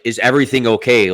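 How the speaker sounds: retold question with a touch of sass; a little sassy. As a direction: lightly imitate a sassy store employee. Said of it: "a little sass to him".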